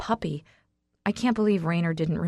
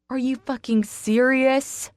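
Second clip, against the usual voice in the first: high, loud, slow outraged screech; 6 semitones higher, 4 dB louder, slower than usual. Acted. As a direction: shriek it at him in disbelief. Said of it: "I screech".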